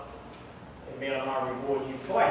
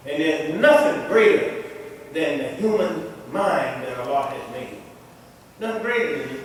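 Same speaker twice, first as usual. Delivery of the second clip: emphatic preaching; 4 semitones higher, 6 dB louder than usual. Real, not acted. Preaches to the congregation.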